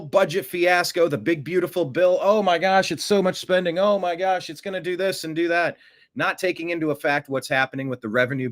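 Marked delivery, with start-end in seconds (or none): 2.2-5.8 higher, fretful "oh my gosh" panic; hammed-up fretting; mock panic. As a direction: mimic hand-wringing worriers. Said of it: "people were freaking out".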